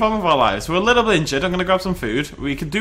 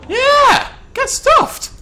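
much higher and louder battle shouts; fighting yell; 5 dB louder, much slower than usual. Real, not acted. Fighting off a T-Rex, loud high battle shouts. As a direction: yell him off with everything you've got.

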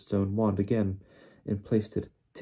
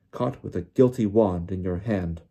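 understated roar, a bit louder; 5 dB louder than usual. Acted. Diggory accusing the elf, mild roar. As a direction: press the accusation home. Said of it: "Mister Diggory roared".

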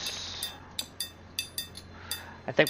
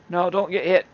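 shouting orders over battle; 6 semitones higher, 6 dB louder than usual. Real, not acted. Commanding colonists during wolf attack.

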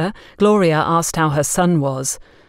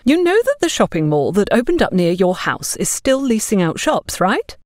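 lightly voiced nosy neighbour, higher; a hint of a meddling busybody; 3 semitones higher than usual. Narrator voices busybody Agatha.

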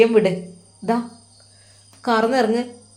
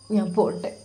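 soft ഞാൻ പോട്ടെ breaking into a whimper, falling at the end; whimpering goodbye like a small child; sobbing like a child; 6 dB quieter than usual. Acted. Sinan bidding his brother-in-law goodbye, whimpering. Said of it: "അവൻ വിതുമ്പി കരഞ്ഞ് കൊച്ചു കുട്ടിയെ പോലെ".

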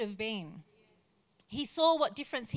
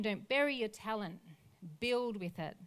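soft appeal; 5 dB quieter than usual. Retold or imitated. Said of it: "Jesus is saying".

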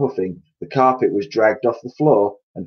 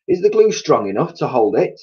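higher, mildly anxious question; worried cry; 6 semitones higher than usual. A narrator's reading. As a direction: ask with a touch of doubt. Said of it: "they cried".

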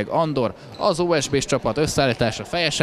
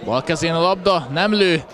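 excited play-by-play; 7 semitones higher, 4 dB louder than usual. Real, not acted. Live play-by-play build-up.

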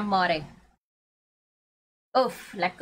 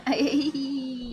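laughing; 4 semitones higher than usual. Real, not acted. Reacting to teammate's shotgun comment.

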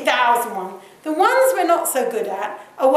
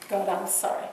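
soft, subdued confession to God; penitent prayer; 3 semitones lower, 4 dB quieter than usual. Acted. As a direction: pray it humbly and evenly. Modelling a personal prayer of confession.

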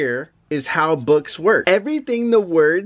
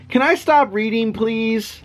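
mock pleading; 5 semitones higher than usual. Dad pleads to stop reading.

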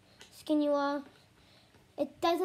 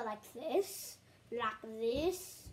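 lower voice; 3 semitones lower, 5 dB quieter, much slower than usual. Shown as a demonstration. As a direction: demo of a slightly lowered weird voice. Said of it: "lower voice".

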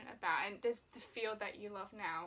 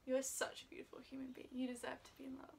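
tender whisper; faster than usual. Real, not acted. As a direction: whisper it like a loving secret. Lieve wens aan toekomstige vriend.

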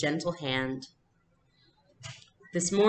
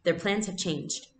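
briskly; 2 semitones higher than usual. Acted. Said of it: "Mama said briskly".

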